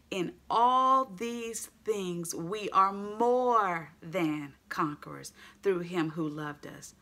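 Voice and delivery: slow, stretched reading; emphatic scripture. Acted. Preacher to congregation, dwelling slowly on the verse. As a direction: draw out every word of the verse.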